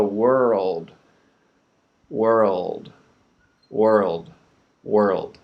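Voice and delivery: world repeated, each one shorter; speeding up. Shown as a demonstration. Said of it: "we have to speed up".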